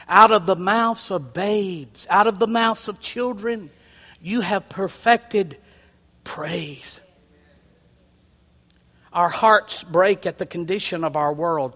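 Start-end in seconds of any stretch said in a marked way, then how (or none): 0.1-7.0 slow repeat, last word whispered; slow, fading to a whisper. Shown as a demonstration. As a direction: drop it to a whisper on praise. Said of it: "repeats the verse slowly".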